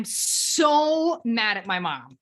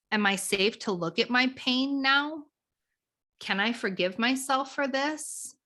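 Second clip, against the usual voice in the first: nurturing, curious; 3 semitones lower than usual. Shown as a demonstration. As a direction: wonder aloud, kind to yourself. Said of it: "a very nurturing, curious part".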